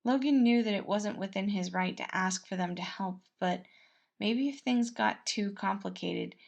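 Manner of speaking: ordinary delivery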